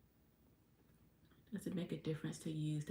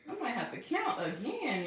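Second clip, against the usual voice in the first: laughing; 5 semitones higher than usual. Real, not acted. Laughing at own mistake.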